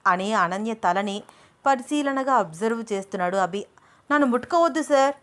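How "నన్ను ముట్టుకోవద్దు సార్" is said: higher, louder and fast; sharp serious rebuke; stern warning. Acted. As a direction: snap at him to back off. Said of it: "సీరియస్గా అంటూ".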